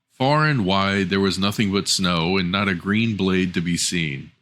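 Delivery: plain reading voice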